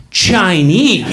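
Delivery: insistent shout. Retold or imitated. Insisting to his friend it is just Chinese, shouted. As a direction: bellow the word at him.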